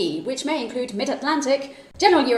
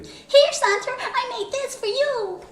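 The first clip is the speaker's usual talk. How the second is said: much higher squeaky elf voice; tiny eager elf, pitched way up; christmas elf; 11 semitones higher than usual. Shown as a demonstration. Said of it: "elf character voices".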